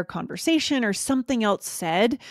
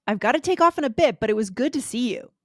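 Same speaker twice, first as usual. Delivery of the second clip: higher, brisk cheerful farewell; friendly quick goodbye; 3 semitones higher, faster than usual. Acted. A guest leaving the party early, brisk and cheery. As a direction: excuse yourself politely, quick and bright. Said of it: "a role play".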